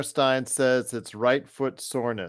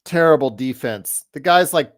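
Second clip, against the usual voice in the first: yelling from the sidelines; 7 dB louder than usual. Real, not acted. Yelling at player on TV.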